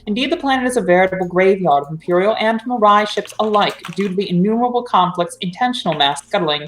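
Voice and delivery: measured narrator reading; story narration. Acted. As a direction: read it like a sci-fi prologue. Reads cold opening.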